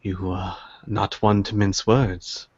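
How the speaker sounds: lightly voiced, measured old dealer; a hint of a wily elderly host; shrewd old tea seller. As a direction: probe politely, in no hurry.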